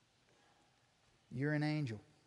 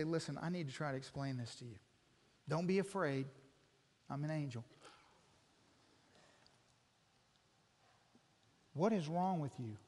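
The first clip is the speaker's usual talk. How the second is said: gentle reassurance; 8 semitones lower, 12 dB quieter, faster than usual. Acted. Angel gently explains to blacksmith.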